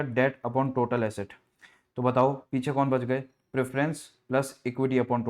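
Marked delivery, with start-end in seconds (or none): 0.0-1.3 very slow, spelled-out formula; slow dictated formula. Shown as a demonstration. Teacher dictating the formula to students, very slowly. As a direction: dictate it word by word.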